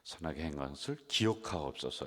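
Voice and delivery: solemn reread, 것을 stressed; verse reread with stress. Shown as a demonstration. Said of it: "삼 절 마지막 부분 보세요".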